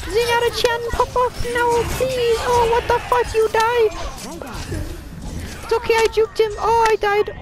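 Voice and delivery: Mercy voice. Pretend. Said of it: "This is the Mercy voice!".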